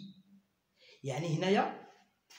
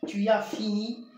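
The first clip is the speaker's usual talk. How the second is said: slow dictation; 4 dB louder, much slower than usual. Shown as a demonstration. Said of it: "J'ai fini".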